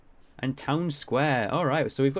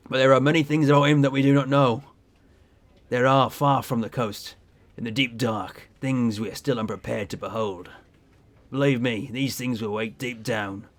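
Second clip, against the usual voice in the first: ominous sea captain; 2 semitones lower than usual. Acted. Captain warns of the deep.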